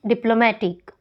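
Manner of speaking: "डिप्लोमेटिक" with MAT strongest; third-syllable stress. Shown as a demonstration. Teacher showing shifting accent, "डिप्लोमेटिक" stressed on MAT. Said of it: "second से third पे".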